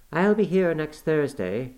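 mild calling out while leaving; cried out. Acted. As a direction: call it back from the saddle, slowly. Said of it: "she cried".

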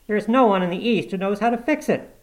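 high-pitched, loud panic; alarmed shout. A narrator's reading. Intern despairing over the broken machine, shouting. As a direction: cry out that disaster is coming. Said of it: "shouted an intern".

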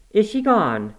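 high, loud, alarmed question; urgent demand. A narrator's reading. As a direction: press him sharply for an answer. Nurse presses the silent boy.

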